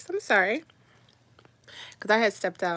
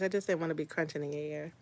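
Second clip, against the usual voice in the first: talking while chewing; words round a bite of food; mouth full; 7 semitones lower, 11 dB quieter, faster than usual. Real, not acted. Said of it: "I'm chewing".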